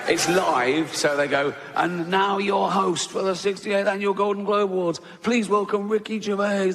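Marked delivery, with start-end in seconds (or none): 1.7-6.7 higher, booming announcer read; awards announcer. Retold or imitated. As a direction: introduce the host like the show's announcer.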